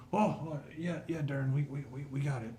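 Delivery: lightly voiced, stammering boy; flustered teenage helper. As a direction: stumble over an eager answer. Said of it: "fifteen or sixteen-year-old human".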